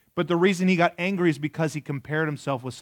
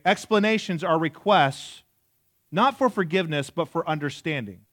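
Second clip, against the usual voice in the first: slow, emphatic restatement. Shown as a demonstration. Preacher repeats the key point to the congregation, slow and emphatic. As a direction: say "Explanations are requests" slowly, each word weighed. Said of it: "repeated slowly".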